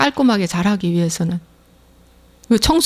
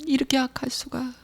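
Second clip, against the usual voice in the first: "이렇게 악할 수가" said much softer, barely voiced; fading confession; 2 semitones higher, 9 dB quieter than usual. Believer confessing to the Lord, soft hushed remorse. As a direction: drop "이렇게 악할 수가" to a hush. Confession fades toward whisper.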